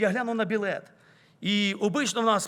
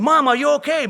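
louder, higher call of Mama, are you okay; calling out to mother; 6 semitones higher, 8 dB louder than usual. Retold or imitated. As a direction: call to a fainting mother to wake her. Daughter shaking fainted mother. (дочка гучно кличе непритомну маму)

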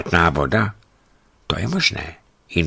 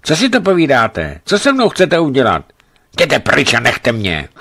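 higher, loud frightened pleading; sick woman crying out at her companions; delirious shouting; 9 semitones higher, 6 dB louder than usual. A narrator's reading. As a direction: push everyone away in a high feverish shout. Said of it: "vykřikla".

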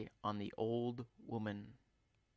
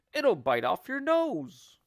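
higher, louder alarmed warning; scaremongering; 8 semitones higher, 6 dB louder than usual. Acted. Husband frightens screaming wife about her nose, scaremongering.

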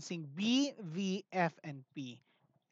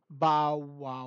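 woof like a big dog; mock big-dog bow wow for the children; 2 semitones lower, 7 dB louder than usual. Shown as a demonstration. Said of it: "Last one".

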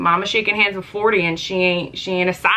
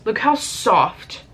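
slow admiring; 2 semitones higher, much slower than usual. Real, not acted. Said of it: "overly excited right now".

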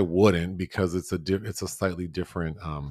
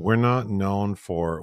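whispering; 4 dB louder, slower than usual. Real, not acted. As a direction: breathe it out unvoiced.

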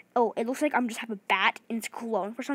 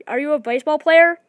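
excited question; 4 semitones higher, 10 dB louder than usual. Real, not acted. Teasing the bat-wielding player.

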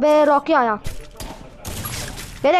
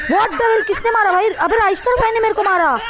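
higher-pitched, indignant disbelief; shocked outcry; 5 semitones higher than usual. Real, not acted. Gamer hit by a teammate, shocked outcry. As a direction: protest in real shock, pitch jumping up.

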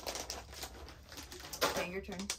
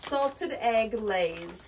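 drawn out; 5 dB louder, much slower than usual. Acted. Dramatic slow reveal of snack.

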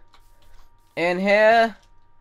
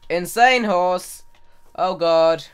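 startled; 4 semitones higher, 8 dB louder, slower than usual. Real, not acted. Horse attacks while fleeing.

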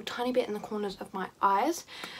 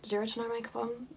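questioning her own words back, a little quieter; incredulous question; 5 dB quieter than usual. Real, not acted. Vlogger doubting the phrase she just said, puzzled. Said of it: "That does not make any sense".

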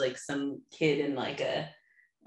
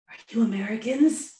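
imitated questioner; 6 semitones higher, 4 dB louder than usual. Retelling a Scottish girl's question.

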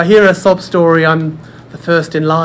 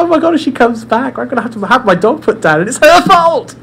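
panicked laughing thought; 6 semitones higher than usual. Retold or imitated.

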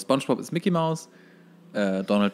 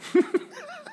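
burst of laughter. Real, not acted.

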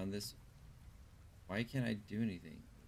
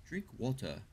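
playfully faked British, final R dropped; fake British accent. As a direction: put on a mock British voice. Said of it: "I'll do the fake British accent".

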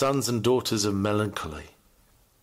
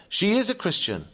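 high-pitched schoolboy reply; American boy; 10 semitones higher than usual. Retold or imitated. Boy vouching for his mother to the teacher, high-pitched. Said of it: "answer given by the American boy".

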